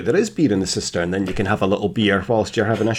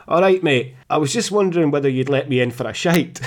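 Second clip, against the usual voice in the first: put-on polite drunk; 3 semitones higher than usual. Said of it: "clearly inebriated".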